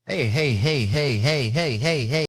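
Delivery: high, loud pep-rally heys; sing-song hype greeter chant. Retold or imitated. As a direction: bounce the heys like a hype man.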